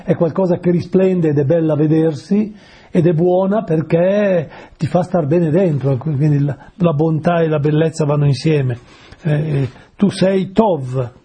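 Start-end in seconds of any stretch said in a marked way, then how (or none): none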